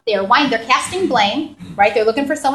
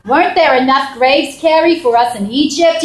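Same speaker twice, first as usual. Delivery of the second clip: nagging New York mother; 3 dB louder than usual. Retold or imitated. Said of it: "something my mother would say".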